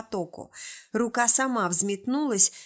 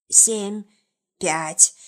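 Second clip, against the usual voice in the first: hissed; 5 dB louder than usual. A narrator's reading. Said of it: "прошипел самый маленький из демонов".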